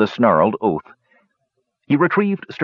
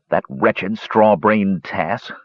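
slow, bitter grumble; slow irritated mutter; grumbling; much slower than usual. Acted. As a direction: chew each word in disgust. Flint grumbling.

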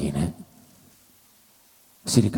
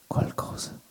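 hushed despair; 3 semitones lower, slower than usual. Acted. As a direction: let hope die in a slow whisper. (sussurro lento e disperato)

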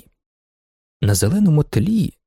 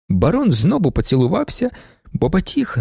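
ordinary delivery

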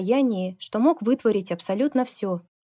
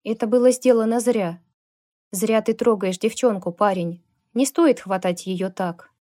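menacing warning; 4 dB louder than usual. Acted. Lukas warning Kevin off the girl, firm menace. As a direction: warn him off firmly, stress было.

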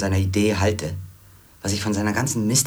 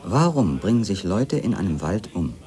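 eindringlich lauter; 3 dB louder than usual. Acted. Drängende Fragen an den Fremden.

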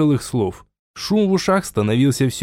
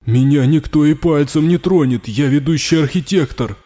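louder, higher, indignant; defiant protest; 4 semitones higher, 3 dB louder than usual. Acted. Raul defiantly argues with the voice in his head, loud. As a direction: insist on your importance.

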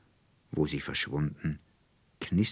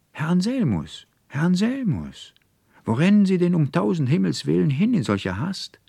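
much higher, louder shout after him; calling out; 12 semitones higher, 6 dB louder than usual. A narrator's reading. Konrektor Paulmann calls after the fleeing student, loud and high. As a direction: hail someone running away across the path. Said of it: "als eine Stimme hinter ihm herrief".

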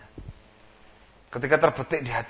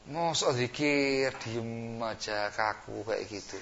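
mocking tempter; much slower than usual. Iblis mocking quiet zikir.

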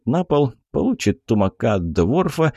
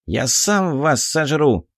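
pixie, not really angry; 5 semitones higher, slower than usual. Acted. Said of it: "без особой злобы сообщил".

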